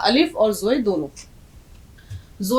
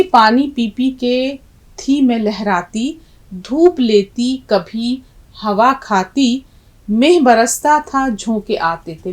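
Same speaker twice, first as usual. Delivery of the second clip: slow poem recitation; slower than usual. Shown as a demonstration. Teacher reciting the dal's lament to students, slow and lyrical. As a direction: recite slowly, savouring each line.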